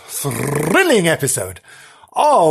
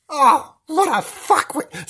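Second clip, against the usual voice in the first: high, slow jeering sneer; mocking; 10 semitones higher, slower than usual. Nobbs jeering at Bernard and Frank, mocking sneer. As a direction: sneer at the silly pair. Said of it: "said Nobbs".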